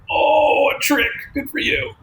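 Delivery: high-pitched mock delight; mock impressed. Comic watching a predictable joke, mock impressed. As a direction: coo high with fake admiration. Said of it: "I'm the same".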